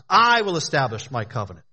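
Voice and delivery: emphatic "I" at the front of the quote; stress on I. Acted. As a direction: lean on "I", then let "will establish my covenant" run on. Repeats quote to stress who acts.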